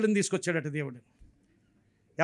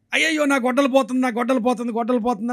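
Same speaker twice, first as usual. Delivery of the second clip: mild mock yell, higher at first, then easing; retold panicked cry; 3 semitones higher than usual. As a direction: imitate a man crying out for his lost axe. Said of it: "గట్టి గట్టిగా అరుస్తున్నాడట".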